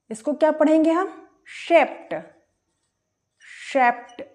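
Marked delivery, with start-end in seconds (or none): 1.5-4.2 शेप्ट ending in a clear t, shaped. Shown as a demonstration. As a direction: end शेप्ट on a crisp t. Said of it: "डी का उच्चारण हो रहा है टा".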